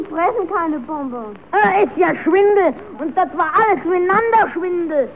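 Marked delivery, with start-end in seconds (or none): 1.5-5.1 loud, outraged scolding; indignant. Acted. Puppet scolding Kasperl for lying, loud and indignant. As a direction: call out the swindle loudly.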